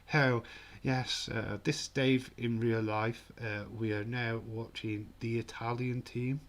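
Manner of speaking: caricatured posh match commentator; posh English accent. Pretend. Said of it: "What of the posh?".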